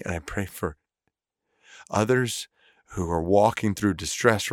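earnest, steady prayer voice; spoken prayer. Real, not acted. Pastor prays aloud for a struggling family, sincere and earnest. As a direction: pray it out sincerely for those in distress.

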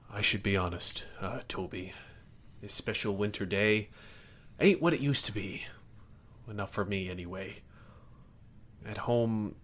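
a hint of a soft, glum grouch; quietly sad old grump confiding; lightly voiced gruff grouch. Kirk confides his sadness.

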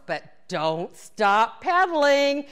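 slow, drawn-out imitated coaching call; instructor's command. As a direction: stretch out each word to the class.

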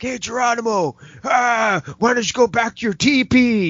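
high jeering redneck taunt; mocking racist redneck. Rednecks taunting Woody Strode, high mock jeer. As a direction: sneer it out like a redneck bully. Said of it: "they're like".

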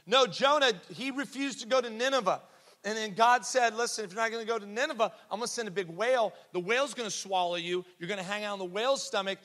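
put-on insistent little girl. Little girl correcting her teacher about Jonah, insistent and high-pitched. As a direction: imitate a schoolgirl earnestly retelling a Bible story. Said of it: "she lifted her hand again and she goes".

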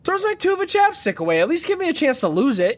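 high, worked-up complaint; indignant rant. Real, not acted. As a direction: vent in outrage. Indignant rant about the chapstick.

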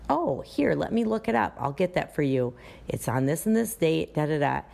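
friendly customer-service voice; nice and helpful. Shown as a demonstration. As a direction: sound happy to look it up. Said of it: "be nice about it".

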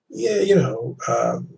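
halting string of fillers and repeats; stumbling filler talk. Shown as a demonstration. Host showing a caller losing the listener, stumbling. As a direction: fumble along, restarting and padding. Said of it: "you're stuttering and you're mumbling".

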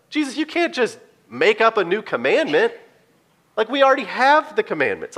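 lightly voiced disciple pushing back; protesting disciple. Preacher voicing a disciple who questions Jesus, mildly indignant. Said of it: "you'd be thinking, like".

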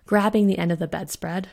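plain reading voice

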